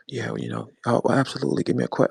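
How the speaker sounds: lightly imitated smooth interview voice; mock his trying-hard cool talk; hint of a put-on smooth talker; the speaker's put-on voice. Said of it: "You don't speak like that now".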